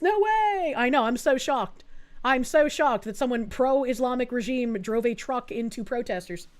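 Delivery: deadpan sarcastic disbelief. Real, not acted. Streamer scoffing at the obvious culprit, sarcastic mock surprise. Sarcastic reaction to expected news.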